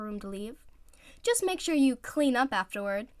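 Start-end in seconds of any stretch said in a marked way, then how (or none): 1.2-3.1 louder parting jab; called out. Acted. Teammate calling back while leaving, teasing. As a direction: toss it over the shoulder. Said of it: "he called behind himself".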